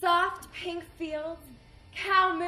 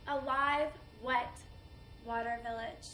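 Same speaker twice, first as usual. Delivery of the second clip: halting phrase sinking softly away; mournful remembrance; 4 dB quieter than usual. Acted. Woman mourning her invaded village, subdued. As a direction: break it into pieces and let it fade.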